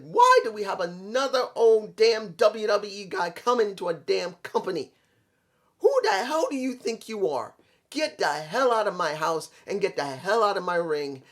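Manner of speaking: mildly hammed-up heel tirade; retold angry heel promo; mock MJF attitude rant. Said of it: "he gets an attitude and said".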